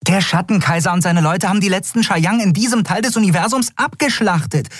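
hoch, schnell, aufgebracht; empört und fassungslos, viel höher; völlig außer sich. A narrator's reading. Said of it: "völlig außer sich". (Nelen ist völlig außer sich vor Empörung)

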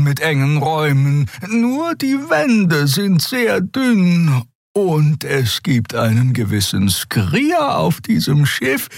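high, slow, lilting healer voice; Xer's high voice. Acted. Xer teasing the others about the snoring Skrier, high and slow. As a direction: drawl it out high and gently teasing.

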